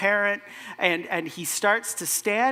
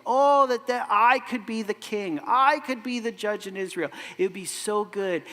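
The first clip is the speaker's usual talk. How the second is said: higher, louder sighing "Oh, that"; mock yearning Absalom; 3 semitones higher, 4 dB louder than usual. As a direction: ham up the prince's wish to be king. Mocking Absalom's longing.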